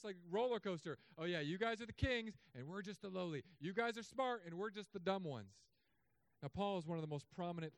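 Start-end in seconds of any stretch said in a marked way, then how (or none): 1.2-5.5 sarcastic. Retold or imitated. Paul needling the boastful Corinthians, sarcastic. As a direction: lay on the sarcastic praise, then drop for the humble part. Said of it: "does this sarcasm".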